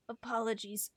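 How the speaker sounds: clipped British apology; British accent. Acted. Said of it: "He's British".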